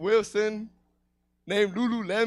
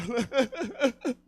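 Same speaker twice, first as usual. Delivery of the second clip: mock upset sobbing; 3 semitones higher than usual. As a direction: act out sobbing like an upset kid. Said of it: "I was all fucking upset".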